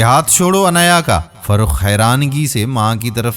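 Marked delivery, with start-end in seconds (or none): 0.0-1.2 stern. Acted. Grandmother ordering her son to let go, stern. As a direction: order him firmly with چھوڑو stressed. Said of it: "سخت لہجے میں".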